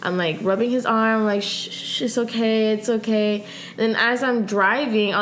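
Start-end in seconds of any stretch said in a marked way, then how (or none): 1.4-3.5 put-on calm a sick drunk friend down gently; mild imitation of a soothing carer; soothing hush. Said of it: "I tried the nice technique".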